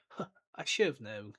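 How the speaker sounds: a light huh, then said evenly; offhand, lightly voiced Dumbledore; plain book version. Dumbledore in the book greeting McGonagall, offhand. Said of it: "In the book, it's just".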